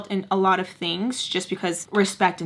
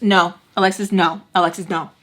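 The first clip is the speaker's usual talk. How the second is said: firm, louder no, no; firm warning; 4 dB louder than usual. Retold or imitated. Friend warning her to stay away, firm and louder. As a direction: warn her off firmly. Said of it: "Going like that".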